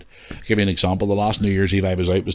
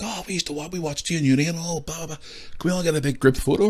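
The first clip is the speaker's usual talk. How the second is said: lads voice; 9 semitones higher than usual. Retold or imitated. Young lads asking for photo.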